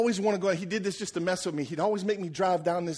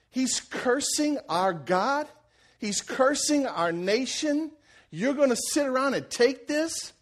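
hushed disbelief building to slow, high indignation; a little indignant; 4 semitones higher, slower than usual. Acted. David shames the trained warriors around him, indignant. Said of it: "I think he got a little indignified".

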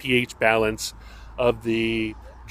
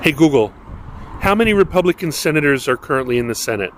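louder, faster repeat to Google; repeating to voice assistant; 3 semitones higher, 5 dB louder, much faster than usual. Real, not acted. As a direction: say it again, louder, to the speaker. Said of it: "repeats the question after no answer".

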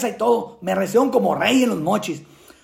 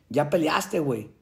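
sad brother; 7 semitones lower, 6 dB quieter, slower than usual. Retold or imitated. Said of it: "me dice mi hermano bien triste".

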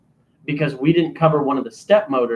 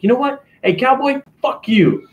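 high-pitched mock outburst; indignant put-on voice, pitched way up; retold angry caller; 11 semitones higher, 3 dB louder than usual. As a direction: imitate a caller blowing up. Retold caller cussing him out.

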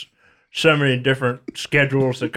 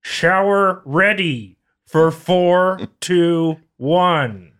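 calling out the number slowly, higher; slow drawn-out call; 4 semitones higher, much slower than usual. Acted. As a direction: stretch out each word like a second call. Calling the numbers again, slower.

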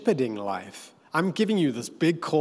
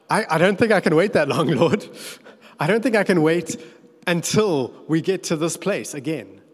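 fast, louder anxious pleading; pleading Moses; 2 semitones higher, 4 dB louder than usual. Retold or imitated. Moses begging God for a sign now, rushed and anxious. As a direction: Moses begging for proof, words tumbling out.

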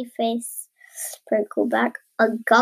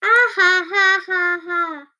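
higher, loud ha ha that fades; laughing; 6 semitones higher, 4 dB louder than usual. A narrator's reading. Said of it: "all the other animals".

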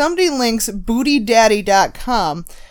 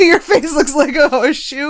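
laughing; 4 semitones higher than usual. Retold or imitated. Repeating quote laughing.

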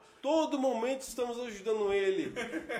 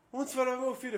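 lightly voiced worried-parent question, higher pitch; questioning father; 4 semitones higher, 4 dB quieter, much faster than usual. Father asks rider about his son, lightly imitated. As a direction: imitate a dad checking up by phone. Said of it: "O pai ligou".

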